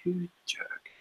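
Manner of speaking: slow, whispered mock curse; retold aside in a slow whisper; muttered grievance. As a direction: grumble it under your breath, drawn out. Retold muttered reaction to snub.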